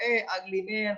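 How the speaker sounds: ordinary talk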